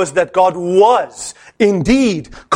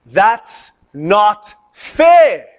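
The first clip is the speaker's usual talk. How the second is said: very slow, louder drawn-out protest; slow chanted outcry of the students; class shouting; 4 semitones higher, 4 dB louder, much slower than usual. Retold or imitated. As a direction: stretch it out like a whole room protesting. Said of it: "They all shouted in unison".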